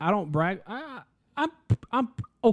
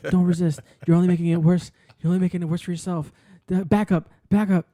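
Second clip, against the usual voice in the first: hammed-up cop barking orders, louder; mock cop shout; 2 semitones higher, 7 dB louder than usual. Jokingly playing a cop yelling at a choked rival, loud mock shout. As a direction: play a cop yelling at a suspect.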